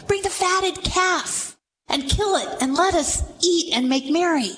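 a generous father ordering a celebration, lightly voiced; father's joyful command. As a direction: announce the feast like a delighted father.

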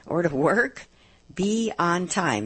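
slow, deliberate repeat of the item; slow list reading. Real, not acted. Radio host reminding note-taking listeners of the item, said slowly. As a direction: land each word slowly. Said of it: "So I'll say 'em slowly".

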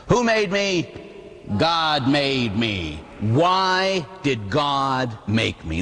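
slow, measured recitation; catechism recitation. Shown as a demonstration. Priest reciting the catechism to teens, slow and deliberate. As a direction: recite each phrase slowly like a lesson. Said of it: "It used to be in the Baltimore Catechism".

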